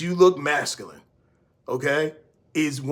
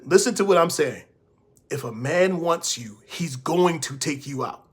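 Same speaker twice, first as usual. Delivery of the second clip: usual speaking voice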